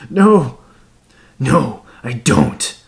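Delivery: loud no, then slow and heavy; shout, then drag the rest; angry shout. A narrator's reading. Ghost shouts back at killer.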